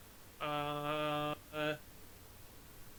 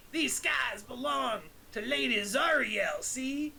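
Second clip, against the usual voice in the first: tough-guy warning; 4 semitones higher, slower than usual. Acted. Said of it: "and Finn goes".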